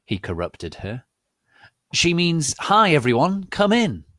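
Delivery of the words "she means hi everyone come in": high, loud hammed-up old wizard; mock Dumbledore. Dumbledore covering for Rumbridge, high hammed-up. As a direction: correct her with fake cheer.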